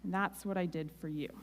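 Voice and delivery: soft, gentle voice of God; a hint of God speaking gently. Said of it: "very gently and said".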